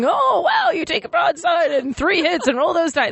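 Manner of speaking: exaggerated high-pitched game-demo shout; hammed-up game enthusiast. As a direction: call out the moves like an overexcited gamer. Mimics husband running a board game.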